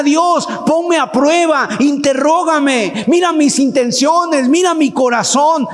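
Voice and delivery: ruego ferviente. Acted.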